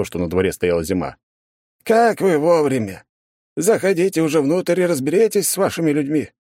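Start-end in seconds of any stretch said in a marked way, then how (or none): 1.8-6.3 higher, pleading voice of a flustered official. Acted. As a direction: beg him to sort it out. Flustered policeman pleads for help.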